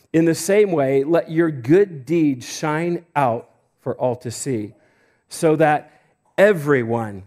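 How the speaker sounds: scripture reading. Acted. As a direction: read the verse out with weight. Reads scripture aloud to church.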